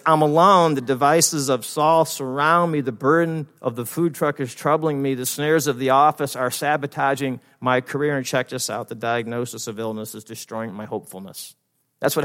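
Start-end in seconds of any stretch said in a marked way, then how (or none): 0.1-8.2 raised, mildly dramatic complaining; mock lament. Preacher as David bemoaning food truck and office, mock lament. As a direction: list the troubles like a psalmist's woes.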